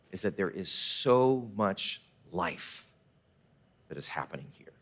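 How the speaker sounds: fading from a soft slow voice into a whisper; whispered wonder. Retold or imitated. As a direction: draw them into hushed awe. Retelling guide's hushed words.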